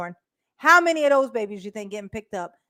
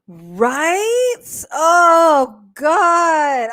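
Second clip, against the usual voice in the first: laughing; 6 semitones higher, 8 dB louder, much slower than usual. Real, not acted. Cracking up at the idea.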